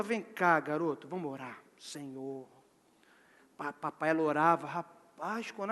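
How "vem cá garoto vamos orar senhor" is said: mother consoling. Acted. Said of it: "Ela fala".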